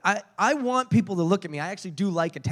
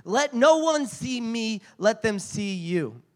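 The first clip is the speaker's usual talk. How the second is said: earnest prayer; 5 semitones higher, slower than usual. Retold or imitated. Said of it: "I'm praying the whole time".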